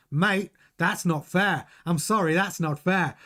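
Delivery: slowed-down attempt at an Australian accent; Piastri's Australian accent. Host quoting a driver's team radio, badly attempted Australian accent. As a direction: have a rough go at an Australian accent. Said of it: "try and do a Piastri accent".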